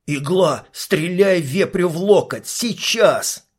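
shouted order. Acted. Fix ordering the sniper to shoot now, mock shout. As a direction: bark the order, building. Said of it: "прокричал Фикс".

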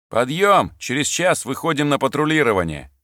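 barked army wake-up order. Acted. Orderly rousing a sleeping soldier. (громкая команда подъёма)

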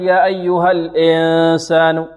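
"الإنسان" opened toward "e", n hummed; wrong kasra. Shown as a demonstration. Teacher showing what not to say, faulty vowel. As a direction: chant "الإنسان" with the i slackened to e. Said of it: "لا نقول".

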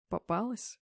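soft, eerie monster voice. A narrator's reading. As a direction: hiss it close behind her. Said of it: "проговорило чудовище". (шёпот чудовища)

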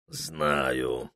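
low, soft, grim answer; gloomy. A narrator's reading. Ibrahim answering Prokhor grimly. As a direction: answer darkly, heavily. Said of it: "мрачно ответил Ибрагим".

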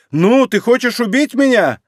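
loud, high shrieking challenge. A narrator's reading. Beaten Alina shrieking up at Inger, loud shriek. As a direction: shriek it from the floor. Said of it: "продолжала визжать и не сдавалась".

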